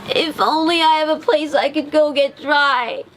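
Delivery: high, sorrowful little voice; soaked duckling lamenting he has no home; tearful duckling. A narrator's reading. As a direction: near tears, lonely. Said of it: "with a tear in his eyes".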